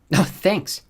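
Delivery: dry mock gratitude; sarcastic. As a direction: thank them without meaning it. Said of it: "she said sarcastically".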